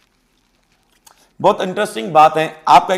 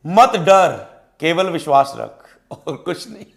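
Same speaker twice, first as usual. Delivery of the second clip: the Lord's reassurance; slower than usual. Acted. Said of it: "प्रभु कहते हैं".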